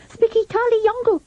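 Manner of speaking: high, lilting nonsense like a French master; boy imitating his French teacher; mock foreign teacher. A narrator's reading. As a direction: ham up a foreign schoolmaster. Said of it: "just like his French master".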